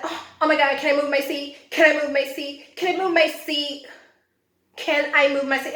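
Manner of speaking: high, loud imitation of pleading; hammed-up alarmed whine to the driver; mock panic. Mimicking woman begging to change seats.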